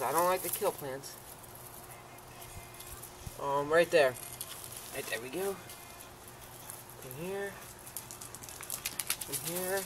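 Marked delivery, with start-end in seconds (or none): 4.9-9.8 much softer, murmured to the plant; gently talking a seedling out of the dirt; soft coaxing. Real, not acted.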